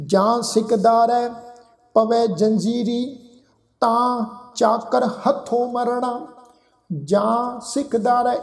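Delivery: slow recitation, nasal vowel in ਜਾਂ and ਤਾਂ; nasalised vowels. Shown as a demonstration. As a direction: recite slowly with pauses, ਜਾਂ and ਤਾਂ through the nose. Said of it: "ਜੱਜੇ ਨੂੰ ਕੰਨਾਂ ਉੱਪਰ ਬਿੰਦੀ ਸਹਿਤ ਨਾਸਕੀ ਉਚਾਰਨ".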